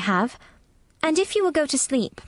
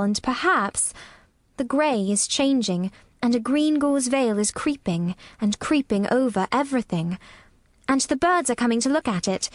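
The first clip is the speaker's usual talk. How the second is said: gently slow, low storytelling voice; 4 semitones higher than usual. A narrator's reading. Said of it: "very slowly and in a very low voice".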